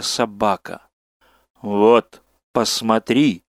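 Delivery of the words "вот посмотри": slow. Acted. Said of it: "медленно сказал Гаю тот".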